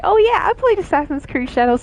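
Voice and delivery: playful put-on voice of an alien impostor; mock impostor. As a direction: gush like a fake friend. Imagined impostor voice.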